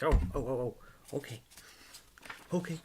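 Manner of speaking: high, loud mock-excited pet voice; excited dog. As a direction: play the eager dog piping up to Dad. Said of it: "She got all excited".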